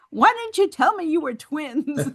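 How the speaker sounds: high-pitched retold punchline breaking into laughter; laughing mock exasperation. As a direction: play the baffled sergeant while cracking up. Sergeant's punchline, teller starts laughing.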